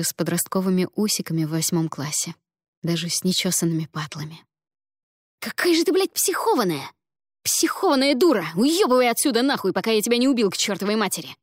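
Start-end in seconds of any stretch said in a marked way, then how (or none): 5.4-11.4 furious shout. Acted. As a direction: scream it out in rage. Гриша yells at Ada.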